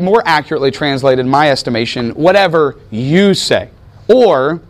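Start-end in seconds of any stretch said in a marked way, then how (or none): 2.1-3.7 slow, with weight on "you"; drawn-out phrase, "you" picked out; stress on YOU. Shown as a demonstration. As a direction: lean on "you" and draw the phrase out. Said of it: "emphasizing the word you".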